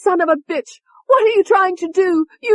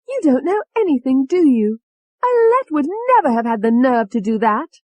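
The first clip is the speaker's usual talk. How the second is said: Tony's furious rant; 11 semitones higher, 6 dB louder than usual. A narrator's reading. Tony raging at David for blaming Alette, furious. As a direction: rage at him like a cornered cockney. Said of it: "Tony said".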